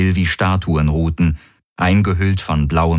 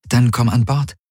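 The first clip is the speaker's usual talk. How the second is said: gentle; 5 semitones higher than usual. Acted. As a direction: gently invite them aboard. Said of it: "sagte sie sanft". (sanft, mit höherer Stimme)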